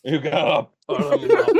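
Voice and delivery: put-on Southern voice; Southern accent. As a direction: echo it as a caricature Southerner. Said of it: "out of the mouth in the accent".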